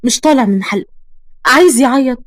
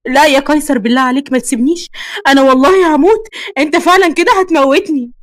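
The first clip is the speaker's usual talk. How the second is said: desperate pleading; 3 semitones higher than usual. Acted. Girlfriend clinging to her lover as he leaves, desperate pleading. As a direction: beg him, rising in pitch.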